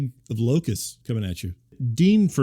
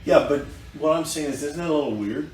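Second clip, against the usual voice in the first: recorded conversation; 6 dB quieter than usual. Real, not acted. Replayed recorded talk with Gwen.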